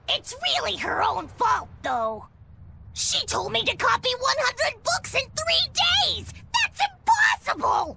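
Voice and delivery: indignant outburst. Acted. Complaining loudly about her mistress.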